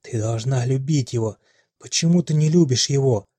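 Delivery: firm voice. A narrator's reading. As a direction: hold her firm and demand. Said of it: "а голос твёрдым".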